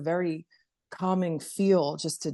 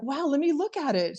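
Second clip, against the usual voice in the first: amazed mom; 9 semitones higher than usual. Retold or imitated. Mom's amazed reaction, retold.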